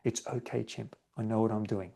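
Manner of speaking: soothing the chimp. Shown as a demonstration. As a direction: hush the panicking chimp gently. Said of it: "you're trying to soothe your chimp".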